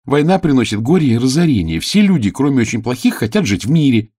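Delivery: put-on high, firm young page voice; earnest page. Page argues with the king, high earnest voice.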